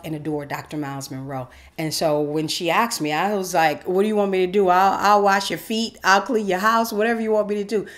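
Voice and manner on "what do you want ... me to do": eager, higher and louder offer. Retold or imitated. She answers her friend's invitation, over-eager. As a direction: gush it out, ready to do anything.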